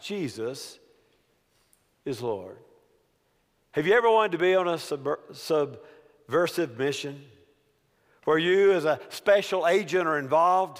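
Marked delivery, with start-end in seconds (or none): 0.0-2.6 soft, hushed, conspiratorial half-whisper. Retelling what she said while co-workers might listen: imitating a half-whisper. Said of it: "She whispered".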